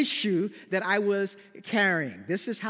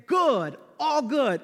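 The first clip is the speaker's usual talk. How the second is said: high, over-bright "I'm fine"; feigned cheer; 4 semitones higher, 4 dB louder, slower than usual. Retold or imitated. Still-upset preacher answers Peter's greeting, feigned cheer. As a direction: answer a bit too high, hiding a grudge.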